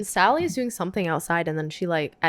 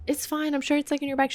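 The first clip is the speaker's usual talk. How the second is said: mock reassurance; 8 semitones higher, 4 dB quieter, faster than usual. Sister soothing the panicking Jillian.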